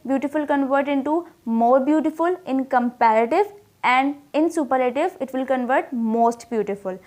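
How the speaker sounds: slow, deliberate reading of the forms; teacher reading the comparative and superlative slowly; slow teaching example. Shown as a demonstration. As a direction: read the forms slowly for the class. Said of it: "तो यहाँ पर beautiful word है".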